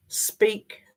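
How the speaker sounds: proper put-on work voice; one careful, clearly spoken word. Shown as a demonstration. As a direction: say it properly, correcting yourself. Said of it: "That was my work voice".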